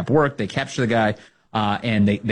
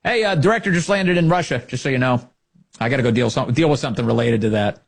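mock leaker; 2 semitones higher than usual.

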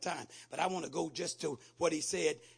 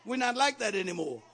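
loud, high, driving preacher's cry; full-force preaching; 5 semitones higher, 9 dB louder than usual. Acted. Preacher rousing the congregation against doubting thoughts, shouting.

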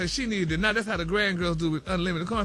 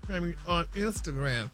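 chatty celebrity news read peppered with honey and y'all; sassy gossip news read. Acted. Radio host reading celebrity news to co-hosts, sassy gossip read.

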